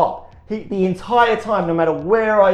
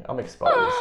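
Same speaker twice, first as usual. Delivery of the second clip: mock dramatic. Comic dramatic line.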